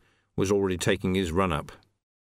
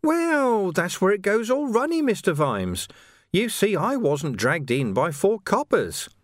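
higher, sly and gleeful; gloating villain; 8 semitones higher than usual. Acted. Carcer gloating to Vimes about his release, sly and gleeful. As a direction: gloat with oily glee.

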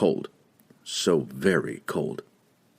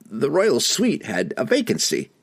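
halfling voice; 6 semitones higher than usual. Acted. Don Don speaking.

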